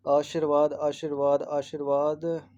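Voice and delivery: आशीर्वाद repeated, slowing to a drawn-out last take; आशीर्वाद stretched syllable by syllable; spelling drilled out. Shown as a demonstration. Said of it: "मात्रा बड़ी वाली आएगी".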